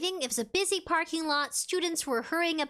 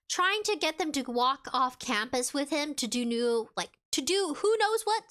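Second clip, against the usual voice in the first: stumbling over the words; stutter. Real, not acted. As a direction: trip over the phrase mid-sentence. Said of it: "Sorry, I stuttered there".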